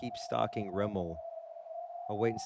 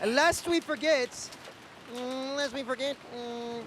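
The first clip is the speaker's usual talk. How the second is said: mock solemn; 12 semitones higher, slower than usual. Dramatic high mock-solemn quote.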